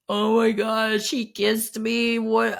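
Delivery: high, slow panicked squeal; freaking out. Retold or imitated. Voicemail to his friend, mock panicked and high. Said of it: "freaking the fuck out".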